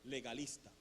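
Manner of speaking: low, measured voice of God; name it quietly and gravely, as God would; voz de Dios. Retold or imitated. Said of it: "escucho la voz de Dios". (voz de Dios, grave y serena)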